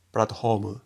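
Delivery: "platform" as puratto hōmu, aspirated h for f; Japanese pronunciation. Shown as a demonstration. Teacher showing the older transcription, Japanese pronunciation. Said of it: "se transcribió como".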